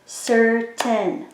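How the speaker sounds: "Certain" split into two slow, separate beats, cer, tain; "Certain" drawn out in two even chunks; syllable by syllable. Shown as a demonstration. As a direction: say "Certain" as if clapping each syllable. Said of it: "clap the word to hear the syllables".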